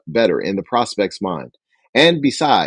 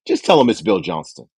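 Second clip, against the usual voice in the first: authoritative instruction. Shown as a demonstration. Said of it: "keep a tone of authority".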